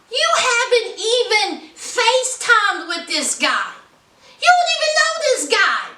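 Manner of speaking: high-pitched imitated daughter's objection; mock a daughter challenging her mother; retold daughter's protest. Daughter warning mom about online boyfriend, retold protest.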